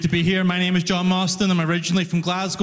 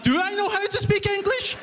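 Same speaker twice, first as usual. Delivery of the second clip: anxious self-question; 12 semitones higher than usual. Retold or imitated. Inner panic voiced.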